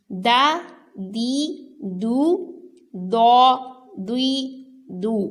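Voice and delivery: thin دال set against full ضاد; teacher drilling دال and ضاد; dal and duad drill. Shown as a demonstration. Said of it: "دال کو باریک پڑھتے ہیں اور دود ہر حالت میں پر".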